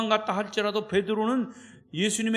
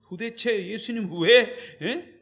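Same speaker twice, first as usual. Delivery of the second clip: agitated protest; 2 semitones higher, 4 dB louder than usual. Acted. Peter shaking and pleading with Jesus, agitated. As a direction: plead in a panic, voice rising. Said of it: "벌벌벌 떨면서 막 흥분하면서".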